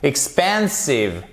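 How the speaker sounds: EXPANSIVE drawn out on the middle syllable; slow model EXPANSIVE, stressed PEN; stress on second syllable. Shown as a demonstration. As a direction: lean slowly on the middle of EXPANSIVE. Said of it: "l'accent tonique ici".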